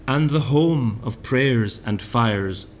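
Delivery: slow, measured poetry reading; poem reading. Shown as a demonstration. Lecturer reading Thomas aloud, slow and measured. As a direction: read the line slowly, savouring it.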